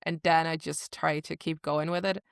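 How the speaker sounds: light, imperfect Irish accent. Shown as a demonstration. Showing a co-host the trick, light Irish accent. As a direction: slip into an amateur Irish lilt. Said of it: "I get into an Irish accent".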